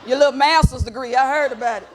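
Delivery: loud mock congratulations, condescending; same shady energy. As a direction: throw the backhanded compliment back. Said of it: "I kept that same energy".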